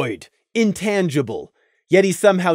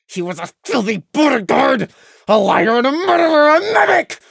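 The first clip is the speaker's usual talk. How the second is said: inner scream; 9 semitones higher, 3 dB louder than usual. A narrator's reading. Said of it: "Prey screamed in his head".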